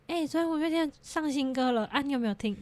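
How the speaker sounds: mildly excited retelling of a friend's news; happy, excited friend. Retold or imitated. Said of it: "很开心的跑过来跟我说". (模仿朋友开心地跑来报消息)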